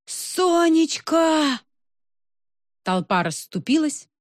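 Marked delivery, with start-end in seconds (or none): 0.1-1.6 long drawn-out high yell; booming shout. A narrator's reading. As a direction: bellow the name across a crowd. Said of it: "мощной звуковой волной".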